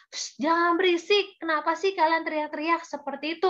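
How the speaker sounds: acted telling-off with a quick finish; mild scolding. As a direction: shush them as an annoyed crowd would. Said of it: "malah memarahi kedua orang buta tadi".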